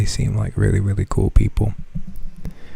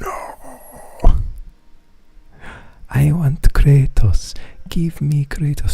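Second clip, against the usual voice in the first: put-on much higher, whiny child's plea; son voice; 6 semitones higher, much slower than usual. Son begging for Kratos in the TikTok, high whine. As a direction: wail it like a small boy. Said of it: "he screams".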